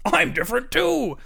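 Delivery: dog voice. A narrator's reading. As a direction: bark it out cheerfully. Dog speaks up.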